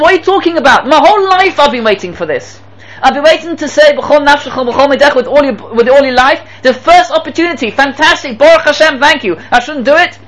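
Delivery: high, eager acted outburst; impassioned reply. Dying rebbe answering his students, impassioned reply. Akiva welcomes his chance joyfully.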